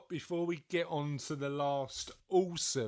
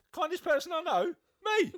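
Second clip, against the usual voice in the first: a high, hammed-up boast about himself, louder; smug mock boast; 5 dB louder than usual. Host mimics Russell modestly praising himself, hammed-up boast. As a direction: lightly voice a smug friend bragging. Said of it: "modestly went".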